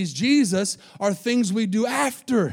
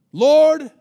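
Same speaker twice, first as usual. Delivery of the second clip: loud, high pleading call of Lord; pleading cry; 6 semitones higher, 10 dB louder than usual. Acted. Believer at heaven's gate crying out loudly.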